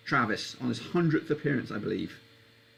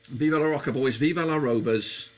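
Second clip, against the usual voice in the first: put-on Jamaican Geordie accent; 5 dB louder than usual. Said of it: "bit of Geordie and a Jamaican".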